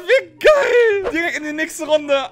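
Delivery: excited cheer. Real, not acted. Cheering after advancing.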